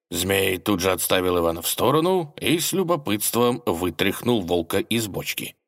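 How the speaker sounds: ordinary delivery, nothing marked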